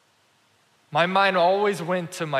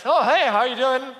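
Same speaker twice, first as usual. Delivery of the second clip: much higher, lilting imitated hello; friendly greeting; 7 semitones higher, 4 dB louder than usual. Nicer guy greets homeless man, high-pitched friendly hello.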